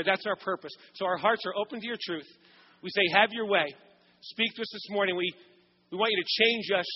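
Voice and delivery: calm, earnest prayer to God. Acted. Pastor leads prayer.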